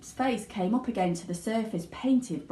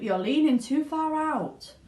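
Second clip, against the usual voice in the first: higher, louder warning; father shouting; 7 semitones higher, 4 dB louder than usual. A narrator's reading. Father warning his son, raised. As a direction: warn him sharply. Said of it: "shouted Mister Gloop".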